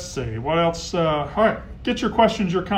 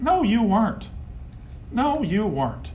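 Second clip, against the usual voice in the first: higher, firm no; flat denial; 6 semitones higher, slower than usual. Real, not acted. Host rebutting fan's claim, higher and firm. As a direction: shoot the claim down.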